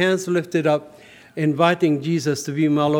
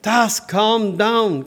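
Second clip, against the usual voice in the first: slow, higher-pitched mock yell; mild retold yell; 4 semitones higher, much slower than usual. Friend calling back a man storming out, slow mild yell. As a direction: call it out slowly, half-yelling. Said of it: "He yelled at me".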